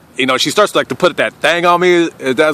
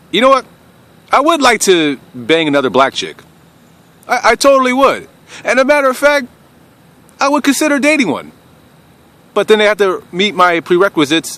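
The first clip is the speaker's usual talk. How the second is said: excited declaration; 7 semitones higher than usual. Real, not acted.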